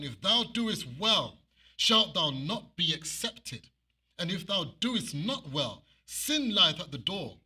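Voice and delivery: slow, weighty scripture reading; read slowly. Shown as a demonstration. Preacher reading Genesis slowly, weighty and deliberate. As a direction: draw out each word. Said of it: "That's why I like to read it slowly".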